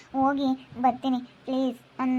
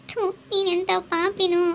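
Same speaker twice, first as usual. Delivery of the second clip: tearful scolding; 4 semitones higher than usual. Acted. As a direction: cry out at him for tormenting her. Harassed woman scolds tormentor tearfully. (ಅಳುತ್ತಾ ಬಯ್ಯುವುದು)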